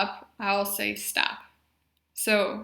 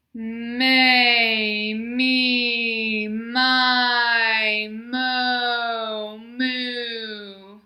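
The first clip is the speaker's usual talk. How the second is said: louder, sustained syllables, connected throughout; loud warm-up voice; 4 dB louder, much slower than usual. Shown as a demonstration. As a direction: make this last round count, full voice. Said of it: "Let's use our loud voice".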